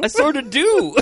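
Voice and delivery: giggling through the words; laughing. Real, not acted. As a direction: laugh while you answer, embarrassed. Laughing while retelling reply.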